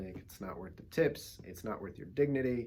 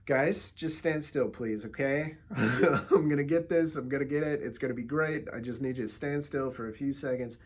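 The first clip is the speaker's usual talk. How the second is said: pleading; 2 semitones higher, 7 dB louder than usual. Retold or imitated. Photographer coaxing fidgety guests, eager and pleading. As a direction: beg them to hold still for the shot.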